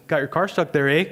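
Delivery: lightly imitated Canadian accent; a hint of Canadian, with a tagged-on "eh"; retold line in a mild Canadian accent. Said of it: "They really talk like that".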